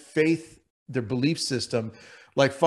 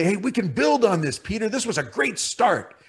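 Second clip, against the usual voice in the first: a hint of a higher, upbeat coach; encouraging Jesus; 5 semitones higher than usual. Jesus imagined praising Peter, lightly higher and upbeat. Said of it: "maybe Jesus is gonna say".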